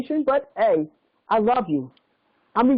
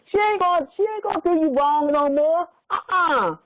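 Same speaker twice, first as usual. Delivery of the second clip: tearful; 4 semitones higher than usual. Real, not acted. Mother apologizing to her sons.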